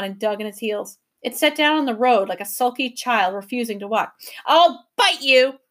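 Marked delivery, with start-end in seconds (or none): 4.5-5.6 slow, louder sly threat; cunningly. A narrator's reading. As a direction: threaten slyly, drawing it out. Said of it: "it said cunningly".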